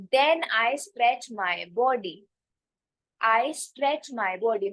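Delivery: very slow, word by word; teacher dictating an example sentence; slow model sentence. Shown as a demonstration. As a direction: spell it out slowly for learners. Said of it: "model sentence".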